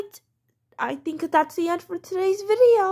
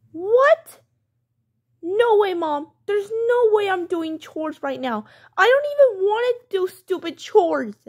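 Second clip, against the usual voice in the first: put-on mildly indignant kid refusing mom; defiant child. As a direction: protest like a kid told to do chores.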